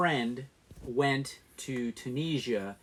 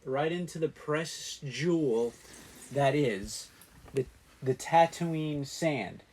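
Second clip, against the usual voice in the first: robot voice. Real, not acted. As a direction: talk like a stiff robot. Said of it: "Why are you talking like a robot?".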